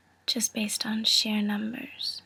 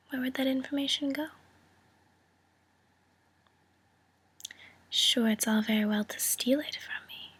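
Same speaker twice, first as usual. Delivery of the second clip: friendly threat. Acted. Veiled threat in negotiation.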